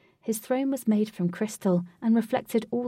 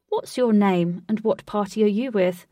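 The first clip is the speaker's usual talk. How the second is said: guard questioning; 6 dB louder than usual. Acted.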